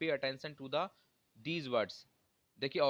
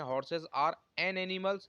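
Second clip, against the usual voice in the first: "Horses are an animals" read word by word; wrong example, dictated slowly; 3 semitones higher, much slower than usual. Shown as a demonstration. Teacher shows students the wrong sentence, very slow. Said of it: "ये हमारा गलत हो जाएगा".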